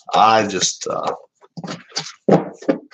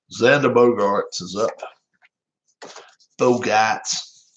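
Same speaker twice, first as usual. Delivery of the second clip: put-on Boston-accented surname with the R dropped; Jerry Remy Boston accent; slower than usual. Streamer trying a sportscaster's name-call, amateur Boston accent. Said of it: "I'll try my best, Jerry Remy".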